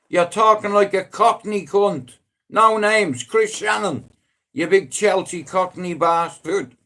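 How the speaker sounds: loud, high ranting jab; half-joking furious rant; mock-angry rant. Real, not acted. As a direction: rip into your mate for going Cockney. Ranting at friend gone Cockney.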